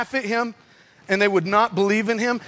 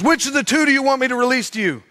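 calling to crowd; 4 semitones higher, faster than usual. Retold or imitated. Pilate addressing the crowd.

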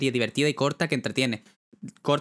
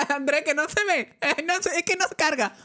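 laughing while talking; 13 semitones higher than usual. Real, not acted. Laughing high.

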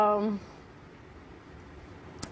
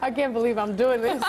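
tag; 3 semitones higher than usual. Real, not acted. Embarrassed before singing impression.

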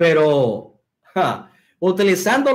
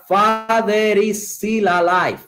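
slow careful read; 3 semitones higher, slower than usual. Shown as a demonstration. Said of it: "entonces sería".

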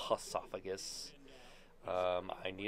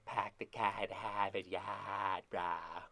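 bad Boston accent; much slower than usual. Gamer heading to Boston jokes in a weak Boston accent. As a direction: try a Boston accent and miss. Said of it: "that's not how old people from Boston sound".

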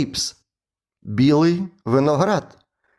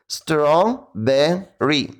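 strawberry slowly chopped into robotic syllables; much slower than usual. Shown as a demonstration. Teacher drilling strawberry like a robot. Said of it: "Потренуємо це слово".

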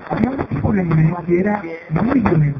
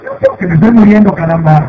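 dying villain; 8 dB louder than usual. Acted. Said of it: "Se murió en los brazos de Molly".

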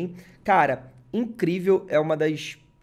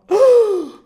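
loud high gasp of shock; sharp gasp; 14 dB louder than usual. Real, not acted. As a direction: gasp at the reveal. Sees the relic card.

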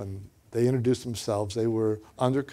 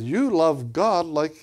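lightly imitated Chinese accent, slow and higher; higher-pitched hint of a Chinese accent; 5 semitones higher, slower than usual. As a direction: retell a boy's Chinese-accented English, slowly. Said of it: "he said it in Chinese accent".

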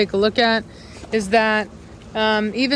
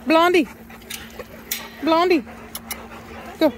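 calling out; 7 semitones higher than usual. Real, not acted. Calling a dog out.

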